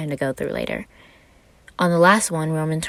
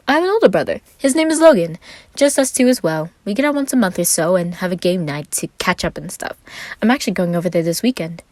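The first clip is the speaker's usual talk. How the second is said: Roman's voice; 3 semitones higher, 5 dB louder than usual. Acted.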